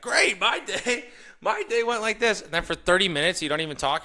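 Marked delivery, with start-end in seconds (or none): 0.0-2.4 high, loud, slow eager chatterbox; mock self-absorbed talker. Lightly mocked talker launching into his own day. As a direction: ham up a self-centred rambler. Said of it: "They're like".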